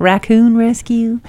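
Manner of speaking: put-on slow, drawn-out hillbilly accent. Riffing on names for animal rescues, hillbilly accent. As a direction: say it like a hillbilly, stretched out. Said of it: "I don't know why I had to say it with a hillbilly accent".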